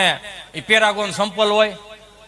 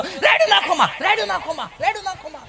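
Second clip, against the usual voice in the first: much higher, fading TV-serial delivery of રાયડું નાખોમાં; soap-opera drama; 8 semitones higher than usual. Retold or imitated. How the Anupama serial would say the line, in high melodrama. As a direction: ham it up like a serial heroine, repeating રાયડું નાખોમાં. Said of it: "જો અનુપમા બોલ્યો તો".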